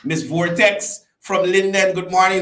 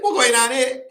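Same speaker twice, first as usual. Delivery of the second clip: Scooby-Doo voice; 8 semitones higher than usual. Retold or imitated. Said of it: "Scooby-Doo just go when they tell you something".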